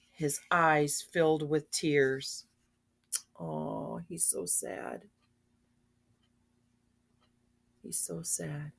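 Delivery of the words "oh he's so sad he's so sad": very soft, sympathetic murmur; sorry aside. Real, not acted. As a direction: murmur it with pity. Reader's sorry aside to listener.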